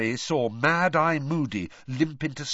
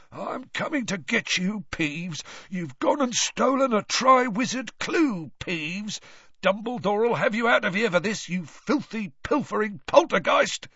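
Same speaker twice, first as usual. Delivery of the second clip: high, rising gleeful menace; Filch's gloating threat; 10 semitones higher, 4 dB louder than usual. A narrator's reading. Filch threatening Peeves, high and gloating. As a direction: gloat over the trapped thief.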